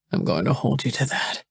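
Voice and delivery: teeth chattering. Acted. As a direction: voice shivering with cold, teeth chattering. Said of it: "his teeth chattering".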